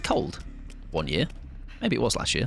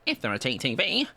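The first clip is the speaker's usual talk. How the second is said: imitating streamer. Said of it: "I said it in that voice".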